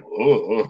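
low "oh, oh" of a sick stomach; imitated queasy groaning. Nauseous teammate coming back to the huddle, imitated groaning. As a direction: groan low, imitating a man who just threw up. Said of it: "like this".

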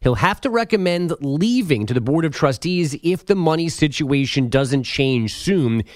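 brisk, steady radio headline delivery; sports news read. Acted. Update anchor giving listeners college conference headlines, news read.

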